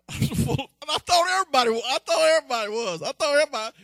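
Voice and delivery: high, loud, rushing and breathless with joy; giddy high excitement. Retold or imitated. Preacher recalling his conversion, giddy and high-pitched. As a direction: gush like a starry-eyed new convert.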